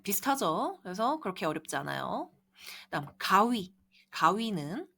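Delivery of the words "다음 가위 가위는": ordinary talk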